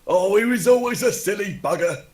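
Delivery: high, loud mock lament; mock grief. Player voices cultist remembering the dead, high mock lament. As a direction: wail fondly over the fallen, hammed-up.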